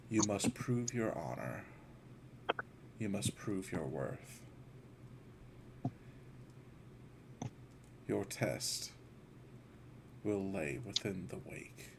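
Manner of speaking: low, soft, measured voice in the mind; mysterious voice. Acted. An unseen presence sets a player a test, hushed mysterious voice. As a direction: intone it quietly and low, leaving long pauses. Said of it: "a voice".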